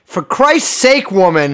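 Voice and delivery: slow, exasperated scolding. Shown as a demonstration. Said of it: "Say it again".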